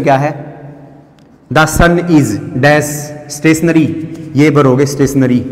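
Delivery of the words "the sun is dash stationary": very slow, word by word; slow, careful sentence reading; slow dictation. Shown as a demonstration. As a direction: read it out like dictation for the class. Reads exam sentence aloud slowly.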